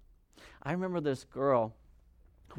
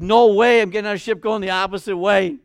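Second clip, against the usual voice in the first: defiant refusal; 2 semitones higher, 9 dB louder than usual. Retold or imitated. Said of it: "He's like".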